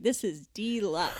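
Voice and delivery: slow "deluxe" with a long, stressed first syllable; drawn-out deluxe. Retold or imitated. Recalling praise of food in Italy, drawn-out "deluxe". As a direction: stretch "deluxe" into DEE-luxe, savouring it. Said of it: "I was like".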